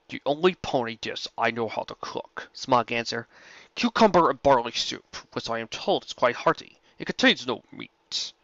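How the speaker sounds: a calm, measured dragon, close to the narrator's own voice; lightly voiced dragon. Dragon Smog greeting Rainbow Dash, lightly voiced and calm. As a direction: play the courteous old dragon, barely changing the voice.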